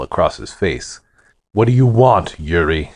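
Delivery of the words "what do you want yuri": cold. Acted. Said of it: "Stan's voice was cold".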